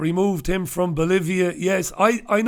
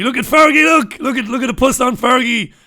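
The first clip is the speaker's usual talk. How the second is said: loud, high, gleeful jeering at the photo; excited; 7 semitones higher, 6 dB louder than usual. Pretend. Host jeering at a newspaper photo of Fergie, loud and high. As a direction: point and crow at Fergie's picture. Mocking Fergie's face on paper.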